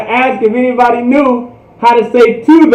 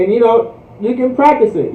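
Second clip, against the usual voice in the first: ordinary delivery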